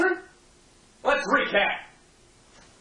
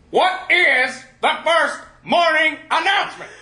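raised, impatient drill question; louder demand. Acted. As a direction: push harder on the repeat. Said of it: "I'll ask you one more time".

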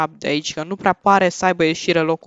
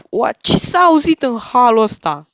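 high, loud burst of alarm; startled; 5 semitones higher, 7 dB louder than usual. Real, not acted. Player hears a horrible noise, startled high outcry. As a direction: blurt it out, shocked by a noise.

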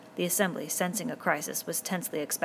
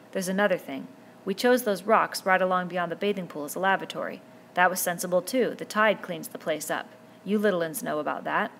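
put-on a boy leader speaking up firmly to a noisy crowd; lightly voiced boy chief, louder than the narration; Ralph addressing the boys; 4 dB louder than usual. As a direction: raise your voice to the assembly and hold their attention.

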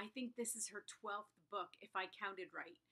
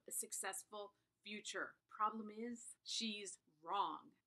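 steady, even reading of a book jacket; blurb read aloud. Acted. Booktuber reading the blurb to viewers, a touch dramatic. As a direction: present the blurb like a back-cover teaser.

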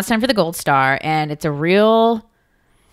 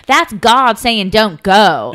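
mock loudmouth; 3 semitones higher, 5 dB louder, slower than usual. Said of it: "our favorite loudmouth".

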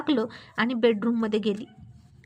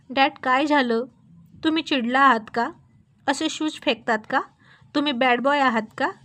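lightly voiced little boy, louder; a child asking his angry dad, a touch louder; small boy's voice; 4 dB louder than usual. Son asking angry father why he threw shoes, lightly childlike.

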